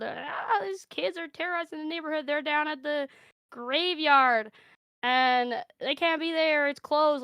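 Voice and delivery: high-pitched mock complaint; complaining neighbor. Caller reporting rowdy kids to police, high mock alarm. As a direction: imitate someone fretfully reporting kids.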